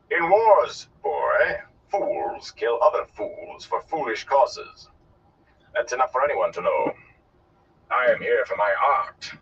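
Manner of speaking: theatrical, drawn-out pronouncement; a hint of lofty old showman; lecturing gleeman. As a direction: lecture the lad grandly, then settle down.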